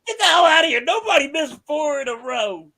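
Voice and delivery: retold disbelief. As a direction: scoff that nobody misses four straight. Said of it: "I'm like".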